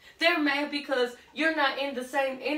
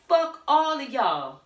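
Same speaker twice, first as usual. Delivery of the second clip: defiant curse; 4 semitones higher, 6 dB louder, slower than usual. Acted. Voicing defiant divine feminine.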